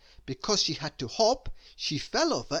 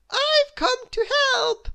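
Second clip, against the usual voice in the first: much higher, slow, sing-song cry of a busybody; eager cry; 8 dB louder, slower than usual. Acted. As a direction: burst in eagerly, insisting on helping. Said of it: "she cried".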